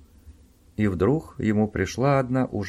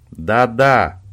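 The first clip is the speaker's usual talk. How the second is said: loud, gruff growl; 8 dB louder than usual. A narrator's reading. Owen snarling back at Robin, a growled yes. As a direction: snarl the answer. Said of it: "прорычал он".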